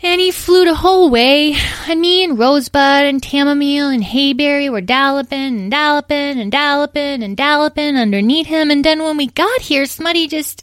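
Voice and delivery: put-on high, childlike little-pony voice; tiny confessing pony. Tiny pony explains how they all got here, earnest and childlike.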